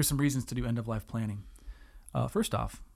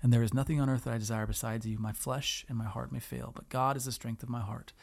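scripture reading. Acted.

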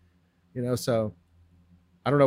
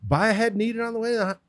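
higher, quick, impatient comeback; fast, exasperated retort; 9 semitones higher, much faster than usual. Retold or imitated. Answering the hotel guest at his lettuce stand, fast impatient retort. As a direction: rattle it off like it's obvious. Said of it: "I'm like".

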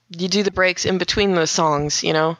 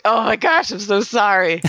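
retold apology; 3 semitones higher than usual. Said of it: "and I was like".

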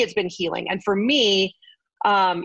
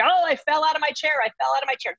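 higher-pitched mock call for help; retold calling out; 8 semitones higher, faster than usual. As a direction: re-enact calling out after a fall, voice lifted. Retelling calling out after a fall.

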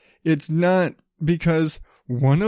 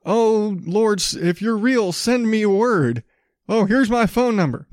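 mock pleading prayer; 6 semitones higher than usual. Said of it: "so these people are like".

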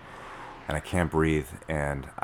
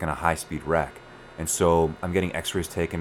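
usual speaking voice

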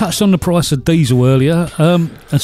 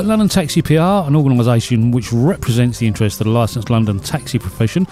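measured read-out of a press release; reading aloud. Real, not acted. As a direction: read the announcement out formally, phrase by phrase.

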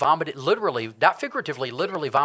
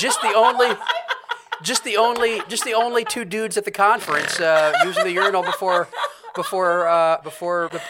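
laughing; 4 semitones higher, 5 dB louder than usual. Real, not acted. Laughing through funny memory.

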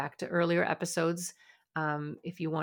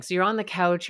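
ordinary talk, nothing marked

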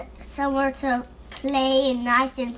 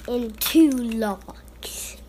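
whispering; much slower than usual. Real, not acted. Child whispers.

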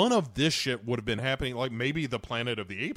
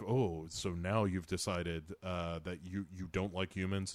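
snide mock accusation; 6 semitones lower, 6 dB quieter than usual. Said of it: "he, you know, is like".

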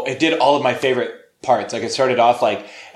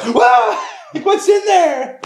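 high, loud startled shout; 13 semitones higher, 4 dB louder, much slower than usual. Retold or imitated. Postal clerks hearing the box talk, startled shout. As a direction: jump back and shout. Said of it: "they're like".

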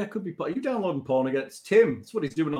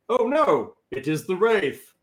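high, slow "Oh no, it is the Wraith"; alarmed; 5 semitones higher, 5 dB louder, slower than usual. Retold or imitated. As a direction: gasp it out in alarm. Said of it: "assume Alexander said".

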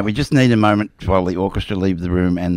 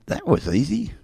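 astronaut quote; 10 semitones higher than usual. Retold or imitated. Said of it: "He says".

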